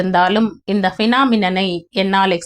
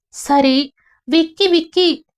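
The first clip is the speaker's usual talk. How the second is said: mock sob; 8 semitones higher, slower than usual. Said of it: "narration says sobbing".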